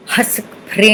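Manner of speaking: Hasak Prem chanted with a nasal ending, mouth left open; mantra demo. Shown as a demonstration. Teacher demonstrating the seed sound, nasal and rising. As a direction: sing out Hasak Prem, letting Prem hum into the nose. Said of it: "don't close your mouth at the end".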